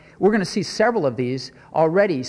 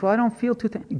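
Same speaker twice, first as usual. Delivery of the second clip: pitched-up grumbling objection; mock whiny excuse; 6 semitones higher than usual. Preacher mocks a believer unwilling to give thanks, whiny. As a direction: grumble like someone refusing thanks.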